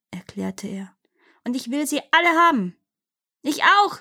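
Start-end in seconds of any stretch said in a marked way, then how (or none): 1.4-2.8 higher-pitched, mildly angry demand; greedy demon. A narrator's reading. Demon quarrels over the inheritance, greedy. 3.4-4.0 high, contained cry; mock demon yell. A narrator's reading. Second demon claims the treasures too, mock yelling. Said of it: "schrie der zweite Dämon".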